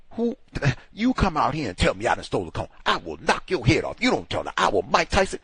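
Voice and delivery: mocking the coworkers' picture of him as violent, hammed-up threats; mock angry threat. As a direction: play the accused threatening back, half-joking. Imitating coworkers' accusations.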